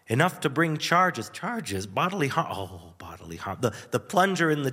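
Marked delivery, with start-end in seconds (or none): 1.3-2.5 disbelieving question, pitched up; incredulous echo. Retold or imitated. Kid overhearing the police, echoing in disbelief. 2.5-3.6 much softer, lower, understood at last; dawning realization. Retold or imitated. Kid realizing the plunger prank, saying it softly and lower.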